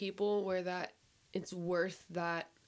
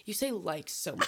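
mock scolding. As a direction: snap it like an annoyed mom. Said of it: "She goes".

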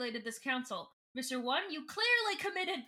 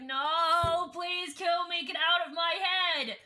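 pleading cry; 5 semitones higher, 4 dB louder, slower than usual. Retold or imitated. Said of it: "Ava's just like".

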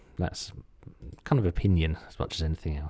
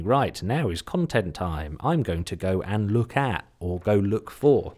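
slow inner voice; slower than usual. Retold or imitated. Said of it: "sitting there and thinking".

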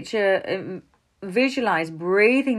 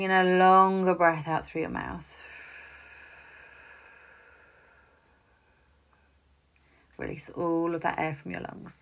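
guided breathing; 4 dB quieter than usual. Shown as a demonstration. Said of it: "I could run you through up breathing now".

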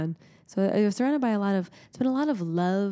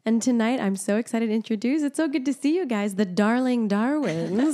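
showbiz introduction; 4 semitones higher, 4 dB louder than usual. Acted. Podcast host introducing guests, excited showbiz reveal. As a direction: announce the guests like a game show host.

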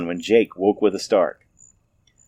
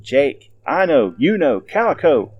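higher, louder searching call; 6 semitones higher, 3 dB louder, slower than usual. Acted. Townspeople searching the woods, calling for Jake. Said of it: "called out to them".

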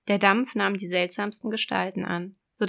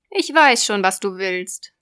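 loud, raised sea witch; 7 dB louder than usual. Acted. Witch voice in fairy tale.

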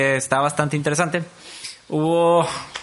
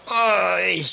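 drawn-out exasperated "ay"; exasperated groan. Retold or imitated. Host reacting to the offensive clip, exasperated groan. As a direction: groan at what you just heard. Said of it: "lo que me desespera".

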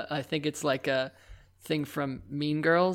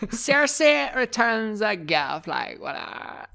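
put-on Valley Girl; 4 semitones higher, slower than usual. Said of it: "Keep it running with the Valley Girl".

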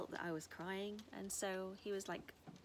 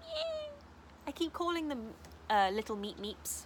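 gushing; 8 semitones higher, 7 dB louder than usual. Real, not acted. Gushing about animals.

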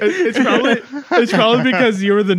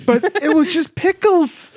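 incredulous; 10 semitones higher, slower than usual. Real, not acted. Incredulous comment on customer.

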